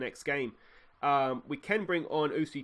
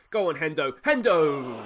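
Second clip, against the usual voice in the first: louder, rising urge to a cry; urging on; 8 dB louder, slower than usual. Real, not acted. Gamer urging his striker on, excited cry. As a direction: cheer the player through on goal.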